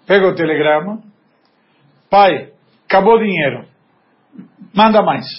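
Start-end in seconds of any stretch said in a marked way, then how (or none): 2.1-5.3 blunt, commanding read with falling ends; curt demand. Retold or imitated. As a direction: bark the request like an order. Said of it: "mas a entonação".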